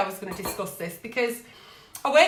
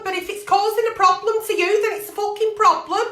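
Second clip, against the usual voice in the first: rising, louder on fucking problem; emphatic rant; 9 semitones higher, 4 dB louder than usual. Real, not acted. Ranting to a letter writer, raised and emphatic. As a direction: hammer the point home. Ranting about partner's drinking.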